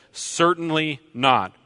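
"Certainly not" punched high, like an exclamation point; emphatic denial. Shown as a demonstration. Preacher reading Paul's reply to the congregation, emphatic. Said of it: "with an exclamation point".

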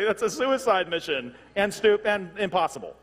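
loud, high, laughing exclamation; incredulous laughing. Real, not acted. Preacher mocking a suicide mission, laughing incredulously. Laughing at absurd rebel plan.

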